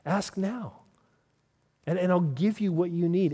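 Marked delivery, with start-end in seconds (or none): 0.1-0.8 laughing repeat. Acted.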